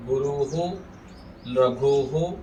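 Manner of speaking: गुरुहु, रघुहु with echoed "hu"; correct hu ending. Shown as a demonstration. Teacher models examples, गुरुहु, रघुहु ending in "hu". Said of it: "ऐसे उच्चारण करेंगे".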